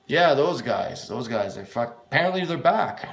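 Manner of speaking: eager news, rising at the end; a touch of thrill in the voice; a little excited. Acted. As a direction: lean in with growing excitement. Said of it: "with a little bit of excitement".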